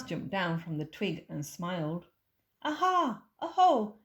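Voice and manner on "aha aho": loud, high triumphant cry; gleeful aha; excited discovery. Acted. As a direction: pounce on the find. Child discovers prints.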